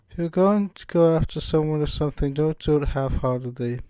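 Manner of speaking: lightly British game-character voice; British-accented advice in character; Monica. Acted. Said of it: "can't shake this British accent".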